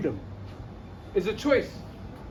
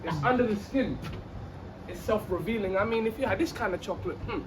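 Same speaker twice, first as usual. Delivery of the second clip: poetic free flow; 3 semitones lower, 5 dB quieter than usual. Acted. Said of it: "A K A poetic free flow".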